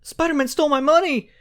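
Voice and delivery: put-on high, whiny old-lady complaint. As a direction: cry out like a robbed granny. Imitating robbed old lady.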